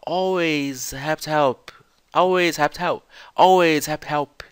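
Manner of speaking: "Always happy to help" repeated as one slurred chunk; imitating the clip. Shown as a demonstration. Teacher drilling the clip's line for students. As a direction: slur "Always happy to help" as the speaker does. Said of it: "Ela fala".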